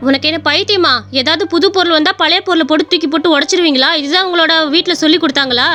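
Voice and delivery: mildly angry sister-in-law; scolding. Acted. Acted quarrel, elder sister-in-law scolds. (லேசான கோபத்தோடு திட்டுதல்)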